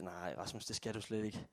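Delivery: low, soft teasing voice of God. Retold or imitated. God teasing Rasmus, low and soft. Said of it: "driller lidt og siger".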